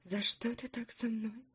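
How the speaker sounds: soft, slow, hurt whisper; whispered plea. Acted. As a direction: breathe it out in pain. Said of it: "прошептала Алиса". (шёпотом, с болью)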